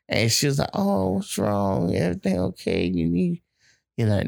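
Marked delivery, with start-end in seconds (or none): 0.7-3.4 voicing the girlfriend. Retelling an Instagram clip, the girlfriend asks what's wrong, higher concerned voice. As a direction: play her worried, stretched out high.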